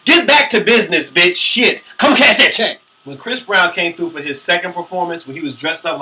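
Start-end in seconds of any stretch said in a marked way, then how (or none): 0.1-2.8 hyped, higher and louder calls; rally her back to business; excited cheer. Real, not acted. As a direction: fan yelling at a singer. Cheering the singer to return.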